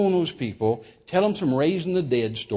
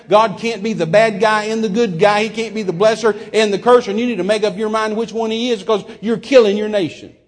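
forceful rebuke; 4 semitones higher, 3 dB louder than usual. Retold or imitated. Continues rebuke of preachers.

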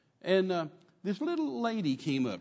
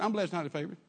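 rote reply; 2 semitones higher, faster than usual. Retold or imitated. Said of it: "You're what?".

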